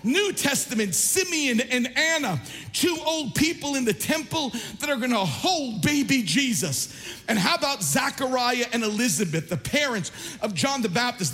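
high-pitched, impassioned pulpit preaching; fired-up preaching. Acted. Preacher rallying the church about sap and old saints, fired-up preaching. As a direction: preach it with full force, voice lifted.

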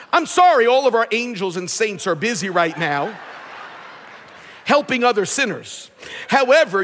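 automated phone menu announcer. Pretend. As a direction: read it like a recorded phone menu. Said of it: "Imagine praying and hearing the following".

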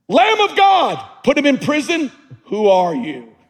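high, loud anguished cry at God. Acted. Doubting prophet crying out to God from prison. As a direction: cry out in betrayed disbelief.

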